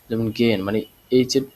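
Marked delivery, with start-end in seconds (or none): 0.4-0.6 গেন with the h left unsounded; silent h. Shown as a demonstration. Teacher showing learners a word with silent h. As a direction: say গেন without any h inside. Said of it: "নীরবে উচ্চারণ করবে".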